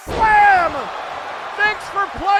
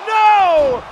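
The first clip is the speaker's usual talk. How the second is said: loud, stunned no; shouted no; 8 semitones higher, 15 dB louder than usual. Real, not acted. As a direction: shout it as the pin breaks. Near-fall reaction.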